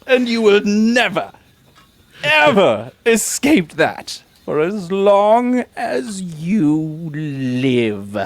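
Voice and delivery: gloating villain taunt. Acted.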